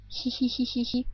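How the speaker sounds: "hi hi hi" breathed with hardly any voice; voiceless ch demo. Shown as a demonstration. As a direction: hiss out "hi hi hi" with almost no voice. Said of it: "but without voice".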